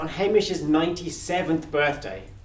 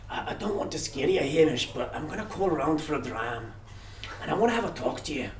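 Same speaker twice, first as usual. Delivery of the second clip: put-on a light Scottish accent for Death, quieter; Death's Scottish accent; 5 dB quieter than usual. Storyteller voicing Death calmly, a hint of Scottish accent. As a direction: Death gently breaking bad news, lightly Scottish. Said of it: "maybe I won't do the accent".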